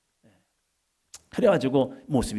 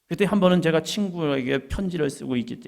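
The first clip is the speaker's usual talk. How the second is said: ordinary talk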